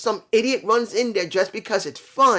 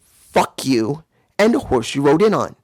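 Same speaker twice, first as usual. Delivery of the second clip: louder, punchy brush-off to the haters; a loud, blunt kiss-off; defiant rant; 4 semitones lower, 6 dB louder than usual. Real, not acted. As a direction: spit it out at the critics. Ranting at critical viewers.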